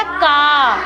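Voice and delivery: का said clearly as a blended syllable; demo sound. Shown as a demonstration. Teacher models का for the class, clearly. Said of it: "पहले मैं करके बताती हूँ".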